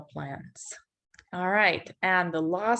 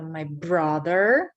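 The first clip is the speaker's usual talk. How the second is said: slow; 2 semitones lower, slower than usual. Shown as a demonstration. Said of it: "My brother got some aloe plants".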